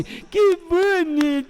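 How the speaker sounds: high, loud, drawn-out pet talk; cooing at a pet. Retold or imitated. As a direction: gush over a cute animal, hammed up. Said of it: "Você olha para o seu animal e diz assim". (voz melosa de falar com bichinho)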